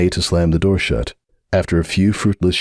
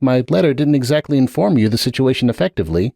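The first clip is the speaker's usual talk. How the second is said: lightly voiced apologetic stallion, a bit higher; sorry and earnest, slightly raised pitch; Sunburst's voice; 6 semitones higher than usual. A narrator's reading. Sunburst apologizing to Hoops at the door, lightly voiced.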